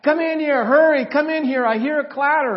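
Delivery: put-on high, loud, hurried kid's call; acting out a child yelling for Dad; boy calling urgently. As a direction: call out high and insistent from the next room. Son voiced, urging dad to come.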